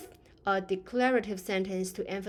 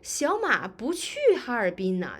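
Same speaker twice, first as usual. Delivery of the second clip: surprised; 2 semitones higher, 4 dB louder than usual. Shown as a demonstration. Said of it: "So I'm kind of surprised".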